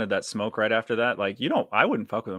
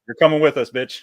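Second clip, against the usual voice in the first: shouted, higher and louder, dragging them down; mock yell; 4 semitones higher, 8 dB louder than usual. Losing team yelling at rivals, mock yell. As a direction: yell it like you're taking them with you.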